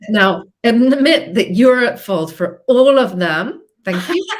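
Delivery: hammed-up demand to confess; a loud sarcastic command; mock demand. Mocking a blame session.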